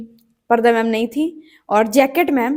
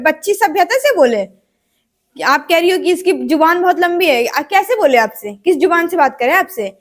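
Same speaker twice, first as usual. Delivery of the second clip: mild mock indignation; imitating an affronted dad's challenge; retold angry father; 3 semitones higher than usual. Father confronting the teacher over his daughter, mildly angry. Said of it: "पापा गुस्से से उठ गए".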